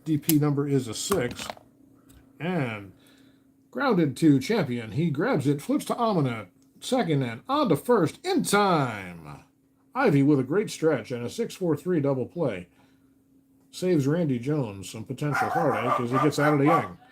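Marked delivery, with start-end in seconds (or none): 2.4-12.7 slowed, rising double-play call. Acted. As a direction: draw out the play like a radio announcer. Dice baseball play-by-play call.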